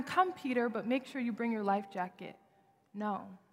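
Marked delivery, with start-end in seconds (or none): 0.0-2.4 mock cautious version. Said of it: "It's not even".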